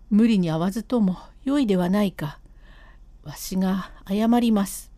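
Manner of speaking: a guilty husband coaxing his wife to go home; husband's voice. Acted.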